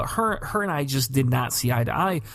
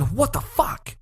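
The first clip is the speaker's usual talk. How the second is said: waking in shock; 8 semitones higher, slower than usual. Retold or imitated. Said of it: "woke up in a snap, sweat going".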